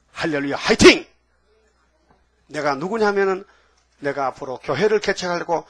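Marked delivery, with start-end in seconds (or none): 0.1-1.1 cheering text. Retold or imitated. Caller's text message quoted.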